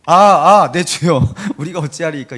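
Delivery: mock formal reading of a cry; 어색한 낭독조. Shown as a demonstration. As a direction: act out an implausibly composed lament, amused. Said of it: "이렇게 말했겠냐고요". (당황한 기색 없이 읽는 투)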